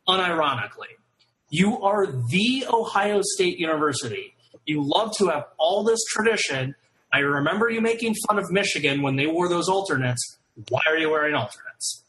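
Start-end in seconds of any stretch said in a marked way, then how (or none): 1.5-12.0 mock-sermon outrage; preachy rant. Real, not acted. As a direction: preach it at them.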